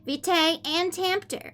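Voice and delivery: put-on high, sweet anime-girl reading voice; fake cute voice. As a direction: read it cutesy and high-pitched. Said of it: "Okay, I'm done reading like that".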